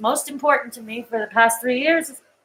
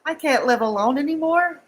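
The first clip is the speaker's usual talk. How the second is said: crying; 5 semitones higher, 3 dB quieter than usual. Real, not acted. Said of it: "I'm sorry I'm crying on the screen".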